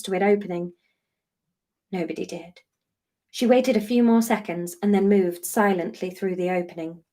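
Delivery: calm, steady storytelling read; story narration. A narrator's reading. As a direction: read the chapter to your listeners, unhurried. Reading chapter aloud to listeners.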